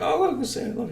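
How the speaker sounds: high, eager "look, see"; mock-eager high voice; eager showing off. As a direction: point it out eagerly. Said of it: "I was like".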